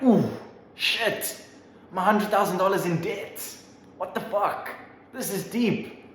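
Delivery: high squeaky mock dismay; panicked high voice. Graduate realising their debt in high squeaky dismay. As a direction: yelp it like a cartoon in shock. You leave college in debt.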